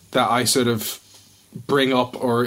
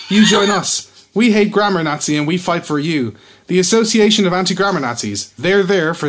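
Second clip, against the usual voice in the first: pushy caveman-grammar pitch; broken English ad voice; 4 semitones higher, 4 dB louder than usual. Pretend.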